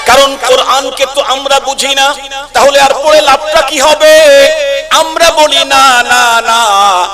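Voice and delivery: high, loud rebuttal cry; fervent preaching. Acted. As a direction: call out the answer to the crowd. Preaching at full force. (উচ্চস্বরে জোরালো ওয়াজ)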